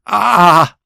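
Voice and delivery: a single drawn moan; mock moan. Retelling the noise heard from the lake, a moan. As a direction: moan like the sound from the boat. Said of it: "I just hear".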